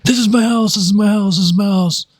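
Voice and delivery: imitated high shouting that fades down; mock old lady insisting, easing off; retold screaming. Imitating the old lady insisting it is her house, shouting then fading. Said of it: "she starts screaming".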